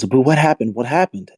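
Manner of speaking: voicing a mom's alarm; retold alarmed questions. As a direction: press the question as an anxious mom would.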